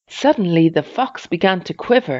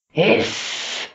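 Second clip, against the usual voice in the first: higher, long sibilant hiss; angry snarl; 6 semitones higher than usual. A narrator's reading. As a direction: hiss sharply like an angry beast. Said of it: "An angry snarl came".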